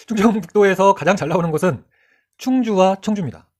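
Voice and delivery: normal talking voice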